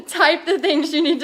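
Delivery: amused, laughing through the words; laughing mid-sentence. Real, not acted. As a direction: break into a laugh while talking. Laughs at own pushy offer.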